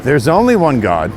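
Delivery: slow, solemn sermon warning; a hint of a preacher's warning; preaching. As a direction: call sinners to judgment, measured and grave. Preaching to scammers about God.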